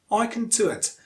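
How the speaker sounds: weak "can", stressed "do"; unstressed CAN. Shown as a demonstration. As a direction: reduce "can" to "kn". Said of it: "the rest is unstressed".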